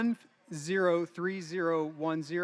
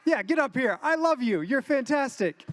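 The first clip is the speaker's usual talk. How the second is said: excited; 5 semitones higher than usual. Real, not acted. Cheering nun to stage.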